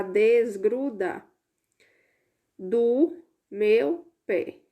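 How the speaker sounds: "desgruda do meu pé" spelled out slowly, word by word; slow read-out. Shown as a demonstration. Teacher slowly decodes the hidden sentence for pupils. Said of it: "tirando o P antes de cada uma dessas sílabas".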